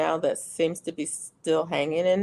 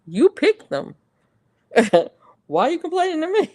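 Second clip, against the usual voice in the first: exasperated mom reply; 8 semitones higher, 5 dB louder than usual. Retold or imitated. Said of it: "I'm like".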